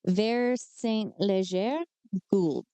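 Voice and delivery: Ver Saint Leger said slowly, one syllable at a time; careful name. Shown as a demonstration. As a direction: sound it out carefully. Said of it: "I don't know why I do this to myself".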